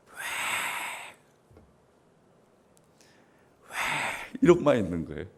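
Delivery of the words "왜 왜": imitated crying out. Grieving believer alone in a corner before God, imitated crying out. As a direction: act out a lone, protesting cry. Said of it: "막 소리를 지르면서".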